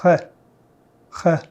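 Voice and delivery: H as a rough French throat r with friction; uvular r. Shown as a demonstration. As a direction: rasp the h at the back of the throat. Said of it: "pronounced at the back of your throat".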